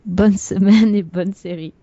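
sexy voice breaking into giggles; stifled giggles. Pretend. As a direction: try a sultry voice but giggle. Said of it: "Je prends ma sexy Phoebe voice".

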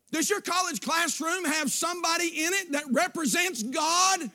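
rising preacher's cadence, shouts on the questions; preaching. Acted. Preacher challenging his church about their homes, fervent preaching. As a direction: press the congregation hard.

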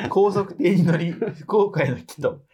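even, measured read-aloud voice; reading a letter aloud. Real, not acted. Host reading out a trip report to the person it is about, read-aloud voice. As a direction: read it out like a written travel report.

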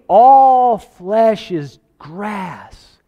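drawn-out, high, loud pulpit cry; bold proclamation. Acted. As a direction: stretch each word out like a herald. John preaching the message boldly.

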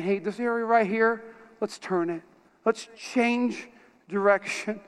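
soft, kindly nudge; gentle, kind. Retold or imitated. Holy Spirit to the listener about changing direction, gentle. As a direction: ease them toward turning, without aggression. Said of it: "gently, in a kind manner".

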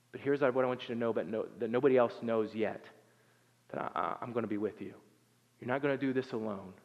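soft, low voice, imitating God's whisper; gentle hushed reassurance. God reassures Gideon in his dark moment, hushed and gentle. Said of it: "God whispers to Gideon and he says".

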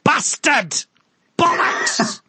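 mock Welsh swearing. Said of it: "She gets back to her trailer and goes".

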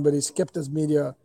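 ordinary delivery

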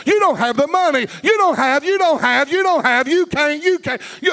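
rising preacher's taunt of doubting voices; clamoring voices. Pretend. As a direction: hurl the doubts like a jeering crowd.

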